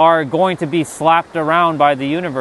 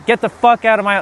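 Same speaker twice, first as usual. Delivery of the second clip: retold drunk yell; 5 semitones higher than usual. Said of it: "that's the alcohol speaking".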